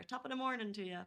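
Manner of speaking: light Irish lilt; a touch of mock Irish; put-on Irish accent. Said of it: "you were gonna go Irish there".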